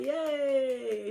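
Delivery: a light, high imitation of a toddler cheering; toddler's yay. Mom imitating her toddler finishing on the potty, lightly high and cheery. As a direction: lightly mimic a delighted little kid cheering. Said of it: "he's like".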